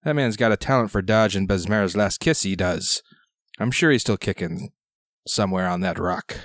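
lightly voiced gruff old sailor; gruff old fisherman. GM plays old pirate sailor.

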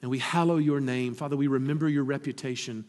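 soft, reverent prayer voice; hushed pastoral prayer; closing prayer. Acted. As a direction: pray quietly for the congregation.

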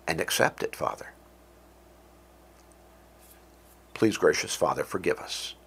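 hushed, reverent prayer voice. Real, not acted. Pastor closing the sermon in prayer to God, hushed and reverent.

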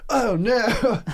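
plumber's oh no. Retold or imitated. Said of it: "he goes".

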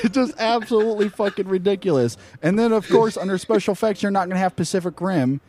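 mad rant. Real, not acted. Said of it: "Tell 'em how you're mad".

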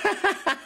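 high-pitched fake giggle; mock giggle. Sandwich lady laughing at lettuce boy, high mock giggle. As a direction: imitate a woman cracking up.

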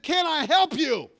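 high, loud, drawn-out exasperated shout; angry yell. Retold or imitated. Pastor snaps at the man standing behind him, yelling. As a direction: yell each word slowly at him. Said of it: "And I yelled at him".

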